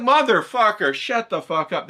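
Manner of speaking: high, loud mock blow-up; fake-snap at the viewer for fun; mock angry outburst. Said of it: "I'm like".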